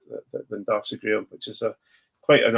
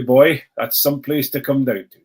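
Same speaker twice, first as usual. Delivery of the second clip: put-on failed Cork accent; 5 dB louder than usual. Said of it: "that was a Jamaican accent".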